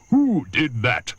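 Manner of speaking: lightly voiced elephant, scornful; a hint of a big grumbling elephant; big deep voice. Trunky scolding the crocodile, lightly voiced big elephant. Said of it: "in his big, deep voice".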